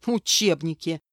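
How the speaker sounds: mocking scoff at учебники; scornful snort. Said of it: "фыркнула Зарина".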